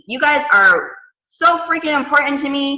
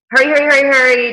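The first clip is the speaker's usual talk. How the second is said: hurrying; 3 semitones higher, 5 dB louder, faster than usual. Retold or imitated. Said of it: "I'm trying to hurry".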